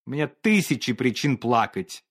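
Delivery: cool, even reproach; cold dismissive. Acted. Painter coldly tells Olga he too has reasons to cry. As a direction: brush off her tears coldly. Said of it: "не доставало только слёз".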